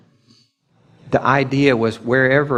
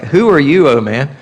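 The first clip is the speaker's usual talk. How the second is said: God's challenge; 2 semitones higher, 5 dB louder than usual. Retold or imitated. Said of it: "It's like".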